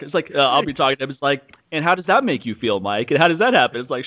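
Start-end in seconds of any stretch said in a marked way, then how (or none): 1.7-3.8 lightly imitated therapist, pitched up; mock a probing therapist a little; therapist talk. Coach playing therapist to his friend, lightly mocked therapist talk. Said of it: "that therapist talk".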